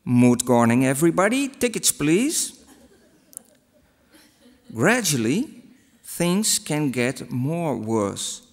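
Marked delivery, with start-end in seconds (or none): 0.1-2.5 swapped first letters, conductor voice; backwards speech. Shown as a demonstration. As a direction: play a muddled train conductor. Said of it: "That would sound like this".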